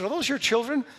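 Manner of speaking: high, loud questioning woman's voice; Corrie ten Boom. Retold or imitated. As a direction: lift the question high and loud, imitating her. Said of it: "She said".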